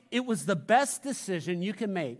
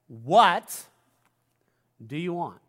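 Jesus' question; 4 semitones lower, 4 dB louder, slower than usual. Shown as a demonstration. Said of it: "How do they read?".

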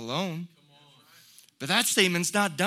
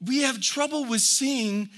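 normal talking voice

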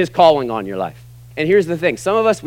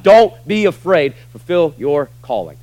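emphatic call; 4 dB louder than usual. Real, not acted. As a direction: plead with them not to fear. Preacher urging the congregation.

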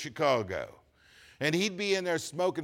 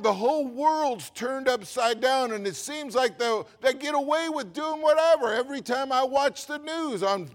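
exasperated prayer; 6 semitones higher, 5 dB louder than usual. Retold or imitated. Retold exasperated prayer to God.

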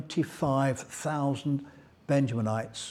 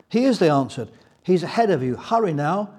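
put-on much higher, louder helpful girls; a hint of excited young women; eager girls; 3 semitones higher, 6 dB louder than usual. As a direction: point him onward with urgency.

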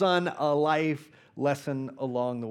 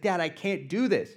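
near tears; 5 semitones higher, 4 dB louder than usual. Retold or imitated. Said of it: "on the verge of tears".

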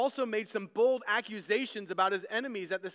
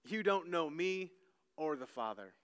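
hushed quote; 5 semitones lower, 7 dB quieter than usual. Shown as a demonstration. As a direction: let it drop to a near hush. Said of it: "says in different ways".

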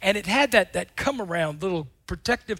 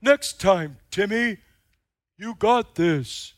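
encouraging friend; slower than usual. Retold or imitated. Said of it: "encouraging friend, said".

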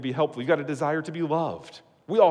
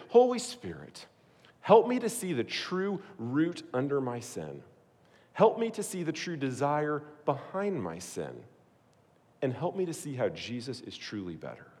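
prayer; 4 dB quieter than usual. Shown as a demonstration. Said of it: "would look something like this".

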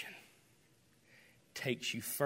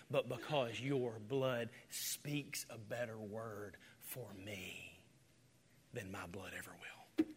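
hushed prayer; 3 semitones lower, 7 dB quieter, slower than usual. Pretend. Hushed prayer voiced for listeners.

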